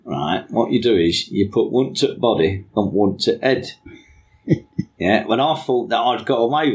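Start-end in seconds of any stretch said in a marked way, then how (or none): 0.5-3.7 put-on northern hitman accent; mock northern English accent for a hitman. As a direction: do your best northern accent. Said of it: "in my best northern fucking accent".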